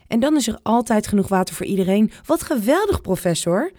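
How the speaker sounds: fast, rising to a high delighted exclamation; enthusiastic. Acted. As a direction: rush it out, then burst into delight. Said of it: "roept opa enthousiast".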